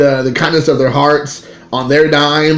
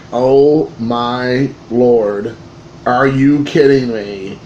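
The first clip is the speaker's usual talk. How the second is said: awed disbelief; 2 semitones lower, much slower than usual. Retold or imitated. Stunned at the rare card.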